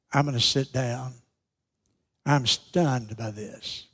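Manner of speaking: low, soft voice of someone stunned; quietly absorb horrible news, slowing as it sinks in; subdued, softly voiced shock. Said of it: "hearing this horrible news".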